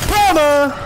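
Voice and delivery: high excited shout of victory; sudden gleeful cry; triumphant yell. Real, not acted. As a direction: bark it out as the shot lands. Shouting at a kill.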